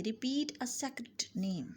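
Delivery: slow, careful answer; slow model phrase. Shown as a demonstration. Teacher answering her own question slowly. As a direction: give the answer slowly and clearly. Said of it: "उसकी English क्या होगी?".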